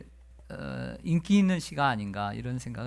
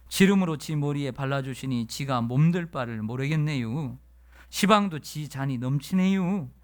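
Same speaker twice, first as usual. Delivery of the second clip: put-on easygoing Chungcheong accent, pitched up; Chungcheong dialect; 3 semitones higher than usual. Pastor reading the Chungcheong dialect psalm to the congregation, in a Chungcheong accent. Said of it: "예, 충청도 버전이 있습니다".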